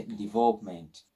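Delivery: "development" as di-VOLP-ment; joined P and M. Shown as a demonstration. Teacher sums up the rule, P and M joined in "development". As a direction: run P straight into M in "development". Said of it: "the P and M are somewhat joined".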